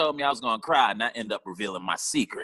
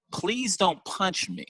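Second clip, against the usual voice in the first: high, slow nurse warning; lightly voiced nurse, slow and high; mock nurse warning; 9 semitones higher, much slower than usual. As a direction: warn him slowly in a high mock voice. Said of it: "Then she said".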